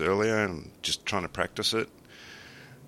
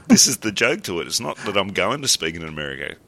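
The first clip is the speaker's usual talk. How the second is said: bad American accent; 4 dB louder than usual. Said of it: "It gets worse".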